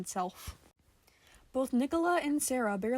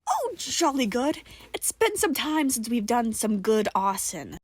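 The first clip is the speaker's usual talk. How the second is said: jolly delight; 3 semitones higher, 6 dB louder than usual. Acted. Nicola delighted by arson.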